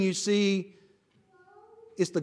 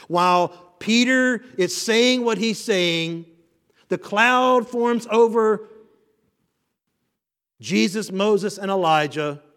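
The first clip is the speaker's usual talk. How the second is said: slow dramatic build; 4 semitones higher, 4 dB louder than usual. Real, not acted.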